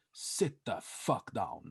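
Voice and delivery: slow, weighted command; retold angry order. Aggressive friend ordering him to sit, understated retold shout. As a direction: lean on each word, mildly aggressive. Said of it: "he just shouted at me".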